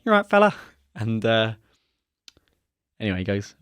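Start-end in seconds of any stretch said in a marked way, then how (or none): 0.1-0.6 loud, much higher cheery call of fella; hearty greeting. Retold or imitated. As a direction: boom out a friendly morning hello. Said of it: "Every morning he'd come in and go".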